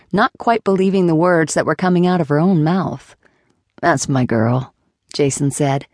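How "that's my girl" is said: patronizing encouragement. Acted. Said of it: "encouragingly and rather patronizingly".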